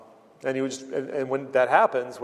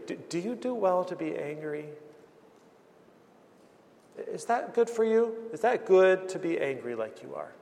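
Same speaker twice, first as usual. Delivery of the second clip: tender; 5 semitones higher than usual. Retold or imitated. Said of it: "He just says so tenderly".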